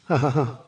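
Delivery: a quick, softish ha-ha-ha; freakish laugh. Real, not acted. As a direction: let out a brief laugh. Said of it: "You're laughing. You're laughing".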